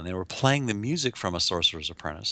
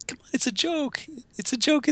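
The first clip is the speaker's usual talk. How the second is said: impish repeat. Retold or imitated. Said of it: "childlike impish voice".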